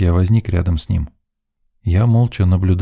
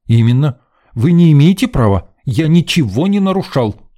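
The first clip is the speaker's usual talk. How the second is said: higher, louder outraged protest; indignant; 7 semitones higher, 4 dB louder than usual. A narrator's reading. Student protesting to the officer, loud indignation. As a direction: insist hotly on your innocence. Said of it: "возмущался Вячеслав".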